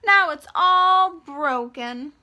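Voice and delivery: high, loud, slowing to a wail; upset baby bear voice. Acted. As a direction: cry out like a cub whose chair is broken. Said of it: "Baby Bear said".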